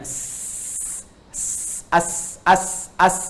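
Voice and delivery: hissed S, then as with a short a before it; teacher showing the sukun; sukun s demo. Shown as a demonstration. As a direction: say as, as with a dead s. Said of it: "Anda sukunkan hurufnya".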